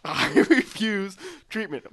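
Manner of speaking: laughing through the line. Acted. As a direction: break into a laugh mid-sentence. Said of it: "that sounded different that time".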